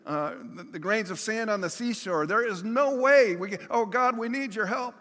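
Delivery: starts level, builds to a loud, high desperate cry; growing panic. Retold or imitated. Preacher voicing outnumbered people crying out to God in panic. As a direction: let the fear mount until it breaks out. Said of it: "the Canaanites saying".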